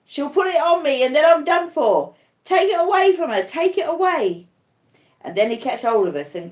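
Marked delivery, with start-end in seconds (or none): 0.1-4.5 2 desperate terrified cries, much higher and louder; 3 beg them to save you from the shroud; 1 crying in terror. A narrator's reading. 4 dying Arthur begs his nurses to take the shroud, terrified cries. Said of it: "he cries".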